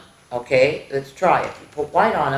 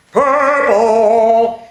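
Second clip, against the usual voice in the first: louder, cheerful call of Purple; excited answer; 3 semitones higher, 5 dB louder than usual. Acted. Teacher calls out the answer to the class. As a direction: shout out the answer happily.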